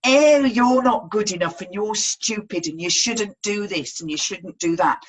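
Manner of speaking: lightly voiced critic in the head; nagging inner voice. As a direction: imitate a scolding mind monkey. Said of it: "that little dialogue going on in your head".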